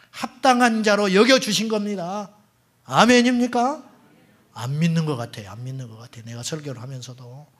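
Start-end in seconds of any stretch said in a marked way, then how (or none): 0.1-3.9 stretched preacher's shout of amen; calling for amen. Real, not acted. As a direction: lift them into answering amen.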